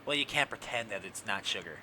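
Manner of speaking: lightly voiced scolding YouTube staffer; a hint of a prim rule-keeper; mock prissy moderator.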